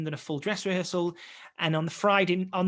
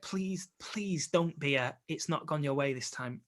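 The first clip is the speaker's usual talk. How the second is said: quiet pleading; 6 dB quieter, slower than usual. Retold or imitated. Bracing for bad news.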